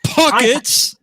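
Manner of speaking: high-pitched cry of "Pockets!"; mock exclamation. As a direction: call it out high, quoting a show. Shouts quote as a reference hint.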